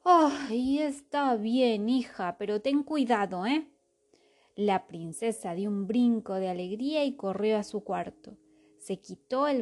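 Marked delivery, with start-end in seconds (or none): 0.0-3.7 sighing, giving in slowly; resigned sigh. Acted. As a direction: give in with a weary sigh. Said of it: "El rey suspiró de nuevo".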